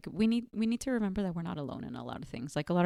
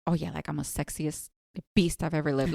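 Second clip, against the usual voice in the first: cocky swagger; 4 semitones lower than usual. Pretend.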